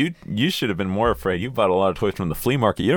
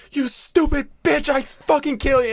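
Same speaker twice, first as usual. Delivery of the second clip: evil doll snarl; 3 dB louder than usual. Retold or imitated. Doll curses at the mom.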